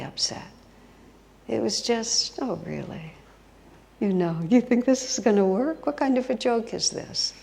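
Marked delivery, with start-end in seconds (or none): 2.4-7.3 amused disbelief. Retold or imitated. Voices amused Jesus teasing Richie.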